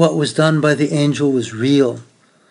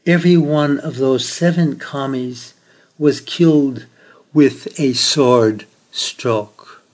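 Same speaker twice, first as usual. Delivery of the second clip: a touch of gentleness, slowing on the last words; gently. Acted. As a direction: soften it, hinting at something holy. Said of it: "he said gently".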